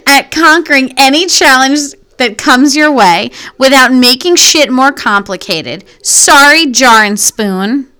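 put-on narrator read, slowing at the end; changed reading voice. Real, not acted. Host reading the snack article aloud, Gossip Girl style. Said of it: "I've changed my voice now".

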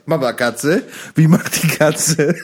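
slow singsong mock toddler talk. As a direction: ask it like a parent quizzing a small child. Talking like to a toddler.

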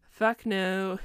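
imitating a laughing refusal; mock scornful laughter. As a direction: laugh through the retold refusal. Retold king laughing off the ransom.

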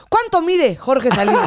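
high, loud, laughing delivery; laughing question. Real, not acted. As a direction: ask through a laugh.

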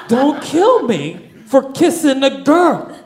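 hammed-up teen-movie line; movie-style melodrama. Panicking man begs guard for his life, slow movie melodrama. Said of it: "right out of a John Hughes movie".

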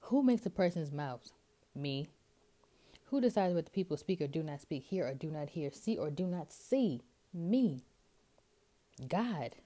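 mock-divine questions, each answered pointedly; lightly acted God making a point; rhetorical questioning. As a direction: pose God's questions, then drop in the obvious answer. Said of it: "asks him these rhetorical questions".

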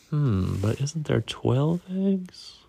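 unvoiced whisper of a hunch; whispering, counting the eggs. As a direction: breathe it as a secret. Whispered suspicion.

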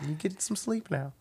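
soft, high tucking-in voice; mock tender. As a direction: coo it gently like a bedtime goodnight. Tucks drunk friend in, forehead kiss.

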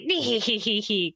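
mock evil tittering; hammed-up sly hee hee; sneaky giggle. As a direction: giggle slyly at the fooled cops. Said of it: "she was just like".

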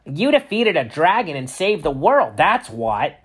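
high, loud excitement; loud, high, thrilled; excited. A narrator's reading. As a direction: burst out with glee. Ernie excitedly explains.

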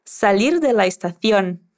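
Castilian "estación" as estaθjon; Castilian accent. Shown as a demonstration. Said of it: "Con el acento de Luis".

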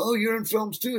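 high, surprised question; mock amazement at the news.

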